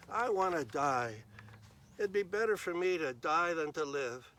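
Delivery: a touch of a tantrum; mild angry sulk. Acted. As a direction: Jonah sulking at God over the dead plant. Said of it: "Jonah was very angry".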